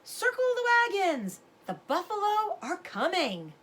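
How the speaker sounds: father shouting warning to the other men; hollering. Acted. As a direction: bellow the warning to the whole camp. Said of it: "He hollered at the top of his voice".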